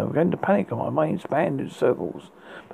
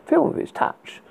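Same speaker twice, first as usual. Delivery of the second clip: whisper; 10 semitones higher than usual. A narrator's reading. Eerie whisper opening.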